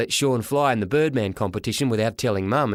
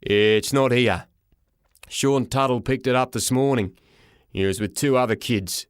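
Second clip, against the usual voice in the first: gruff porter. Acted. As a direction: deliver it like an unbothered, surly clerk. Porter delivers terrible news.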